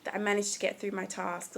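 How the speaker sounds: whispered, savoring the moment; hushed, grateful whisper. Shown as a demonstration. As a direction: breathe it out as a happy whisper. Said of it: "be like".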